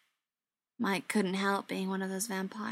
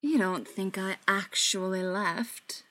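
confident; slower than usual. Acted. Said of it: "Beckett said confidently".

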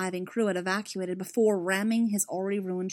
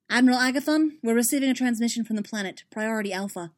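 urgent report; 4 semitones higher, 5 dB louder than usual. Acted. Officer reports urgent transmission.

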